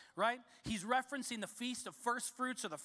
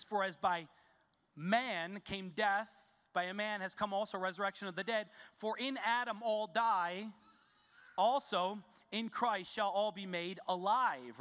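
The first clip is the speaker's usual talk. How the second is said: scripture reading. Acted. Pastor reading verses to the congregation, measured and solemn. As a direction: read each phrase with weight.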